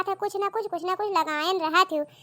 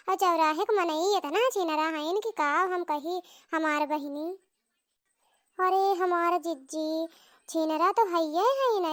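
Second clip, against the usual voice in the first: gossiping village aunt. Acted. Neighbour aunt gossips, scandalised.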